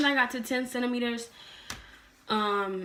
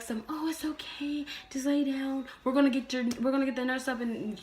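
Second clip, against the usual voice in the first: higher-pitched mock reassurance; reassuring nurse; 6 semitones higher than usual. Nurse telling her to lay down, soothing. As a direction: lightly imitate a soothing nurse.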